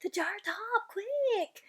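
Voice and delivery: urgent giant. Acted.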